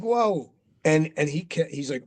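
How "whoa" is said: high, drawn-out whoa of surprise; retold alarm. Wrestler reacting to a threatened punch, retold startled whoa. Retells dodging a second punch.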